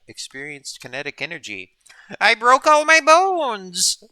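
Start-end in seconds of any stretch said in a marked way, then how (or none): 2.2-4.0 high, slow, loud skeleton voice; talking skull. Pretend. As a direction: drag it out like a cartoon skeleton. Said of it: "That wasn't a very good skeleton impression".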